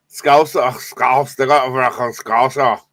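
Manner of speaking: badly faked Scouse, drifting between accents; muddled mock Scouse accent; botched Scouse accent. Shown as a demonstration. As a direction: attempt Scouse and miss. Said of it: "You sound a part Pakistani, part Scottish with that Scouse".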